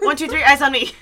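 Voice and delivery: sing-song classroom call, laughing; kindergarten teacher voice. Acted. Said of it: "I have to teacher you guys".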